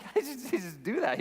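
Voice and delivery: high-pitched retold amazement; amazed. Young youth pastor marvels at his pastor preaching unprepared, amazed.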